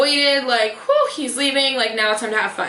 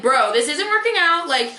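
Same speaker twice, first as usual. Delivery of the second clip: imagined blunt brush-off; 3 semitones higher, slower than usual. Retold or imitated. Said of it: "everything in me wanted to be like".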